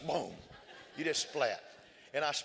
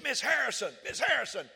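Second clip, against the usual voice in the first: put-on high, eager child voice calling teacher; a small boy waving his hand for teacher; child calling out, slow at the end; little boy calling; 10 semitones higher, 5 dB louder than usual.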